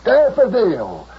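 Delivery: 慢慢地高声拖长呼唤; 焦急地拉长声音喊她. Acted. Calling out on phone.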